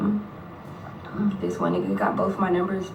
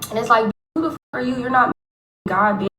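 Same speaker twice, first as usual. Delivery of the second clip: raised, louder indignant rant; mock angry rant; 3 semitones higher, 3 dB louder than usual. Snapping at the meddling woman, a mock angry rant. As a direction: tell her off, loud and fast.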